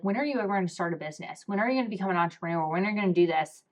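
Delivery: imitating her dad. Daughter mimicking her dad pushing her to start a business, fast and hushed. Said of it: "my dad has started to ask me".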